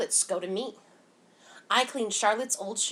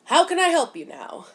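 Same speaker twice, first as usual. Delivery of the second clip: higher, louder storekeeper line, curt; shopkeeper's voice; 9 semitones higher, 9 dB louder than usual. A narrator's reading. Shopkeeper to Mama and daughter, much higher and louder. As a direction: voice the clerk finally turning to them.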